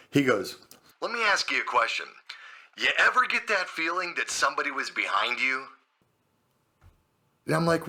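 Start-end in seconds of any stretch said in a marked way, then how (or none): 1.0-5.7 slightly muffled, as down a phone line; caller's voice over the line. Retold or imitated. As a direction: imitate a friend on the phone. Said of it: "I get a phone call from Terry".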